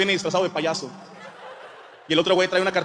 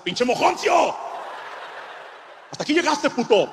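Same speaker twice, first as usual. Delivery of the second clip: shouting in a rage; furious shout; 8 semitones higher than usual. Retold or imitated. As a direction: yell it out, furious. Furious outburst at the boy.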